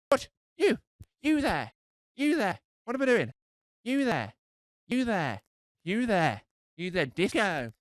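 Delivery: high, repeated searching calls; confused calling out. Retold or imitated. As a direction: call out into the dark room, lost.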